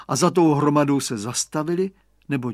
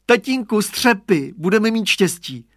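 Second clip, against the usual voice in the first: put-on higher, louder, prompt boyish call; quick, eager boy; 6 semitones higher, 5 dB louder than usual. A narrator's reading. Radovan to his father over the broken pots, promptly and eagerly. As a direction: pipe up readily to dad. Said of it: "řekl pohotově Radovan".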